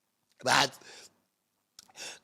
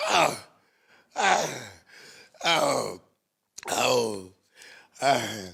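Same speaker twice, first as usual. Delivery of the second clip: moaning; 4 semitones lower, much slower than usual. Real, not acted. Moans after saying she's been crying.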